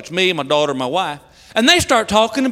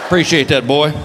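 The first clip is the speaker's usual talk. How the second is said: mortified low thanks; 10 semitones lower than usual. Acted. Mortified dad answers loud son.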